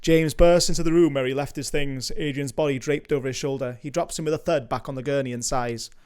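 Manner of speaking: measured read of stage directions; screenplay narration. A narrator's reading. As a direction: narrate the scene like a script reader.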